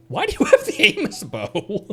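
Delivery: incredulous laughing question to the character; laughing disbelief. Real, not acted. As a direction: ask it again, cracking up at the absurd choice.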